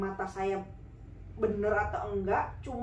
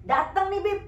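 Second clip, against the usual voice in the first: excited; 6 semitones higher than usual. Real, not acted. Excited at the man's arrival.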